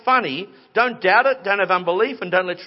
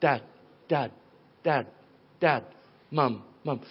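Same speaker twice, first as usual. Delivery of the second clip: imitated first words, each set apart; little baby syllables; 7 semitones lower, 6 dB quieter than usual. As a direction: drop isolated short syllables like a baby learning. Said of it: "A baby starts in little syllables".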